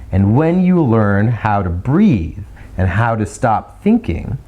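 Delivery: slow, rhythmic and even; slow melodic. Shown as a demonstration. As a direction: let it flow slowly on the breath. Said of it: "they kind of sound like this".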